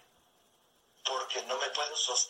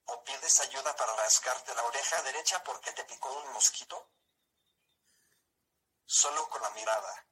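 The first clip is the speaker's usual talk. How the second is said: synthesized voice. Real, not acted. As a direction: computer voice with even robotic pacing. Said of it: "esta es una voz sintetizada".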